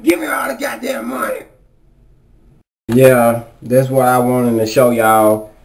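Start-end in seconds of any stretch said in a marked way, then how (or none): 0.0-1.4 whispered threat. Acted. Robber resumes after call.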